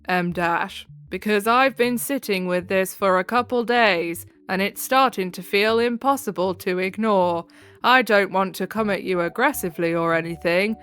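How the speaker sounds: flat monotone reading, no inflection. Shown as a demonstration. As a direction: read it as flat as possible. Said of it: "read this as monotone as possible".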